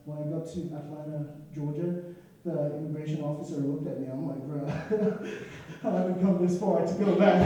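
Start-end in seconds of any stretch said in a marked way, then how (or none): 4.5-7.4 laughing plea. Retold or imitated. Pleading with the immigration officer.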